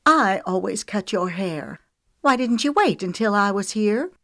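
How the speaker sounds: high, whiny hurt complaint; petulantly wounded. A narrator's reading. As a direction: sulk as if betrayed. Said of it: "petulantly wounded note".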